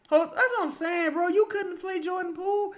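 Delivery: high-pitched disbelieving complaint; exasperated. Real, not acted. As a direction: ask it as if the coach lost his mind. Complaining about the coach.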